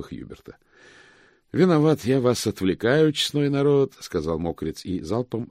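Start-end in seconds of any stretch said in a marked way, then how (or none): 1.5-3.9 high, booming address to the company; hearty loud apology. Acted. Moist addressing everyone before downing the cup, loud. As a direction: sing it out to everyone present.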